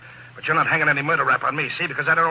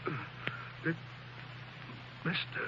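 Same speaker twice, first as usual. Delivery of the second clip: dying words; 3 semitones higher than usual. Acted. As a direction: let the life drain out of each word. Shot, dying mid-confession.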